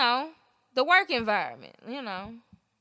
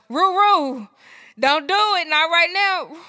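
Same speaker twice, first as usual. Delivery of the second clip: pleading with Rue; 5 semitones higher, 6 dB louder, slower than usual. Retold or imitated. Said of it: "I was like".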